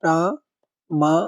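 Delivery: प्रामाणिक drawn out slowly, long praa clear; slow clear demo. Shown as a demonstration. Teacher repeating the word slowly so students catch the long aa. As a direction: spell out प्रामाणिक slowly for the class. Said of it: "ये होता है प्रामाणिक".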